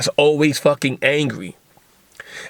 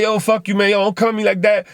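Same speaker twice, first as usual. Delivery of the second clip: higher-pitched mock angry retort; acted indignation; 6 semitones higher, faster than usual. Podcaster plays the angry roommate talking back, indignant. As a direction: snap back defensively, pitch raised.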